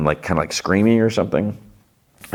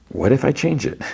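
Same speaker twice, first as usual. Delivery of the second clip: retold defiant question; 8 semitones higher than usual. Younger Shah challenges the warning.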